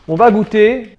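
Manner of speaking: loud, high burst of eagerness; excited. Real, not acted. Vlogger to viewers before the first bite, excited and loud. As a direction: announce the tasting like a treat's arrived. About to taste the food.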